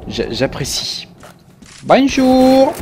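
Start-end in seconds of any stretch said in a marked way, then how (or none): 1.8-2.7 high, put-on German greeting; German accent. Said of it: "Je sais pas pourquoi un accent allemand".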